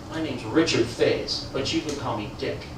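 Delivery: a low, slow, deadpan stoic voice; stoic customer. Retold or imitated. Customer introducing himself to the salesman, stoic and slow. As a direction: give your name like a stone-faced customer. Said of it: "standing there all stoic".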